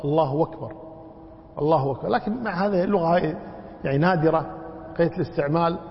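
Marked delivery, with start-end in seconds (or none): 0.0-2.1 الله أكبر linked as allahu-wakbar; waw for hamza. Shown as a demonstration. Teacher illustrates an Arab dialect form, hamza becoming w. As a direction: say أكبر as wakbar, no glottal stop. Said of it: "يبدلون الهمزة واوا".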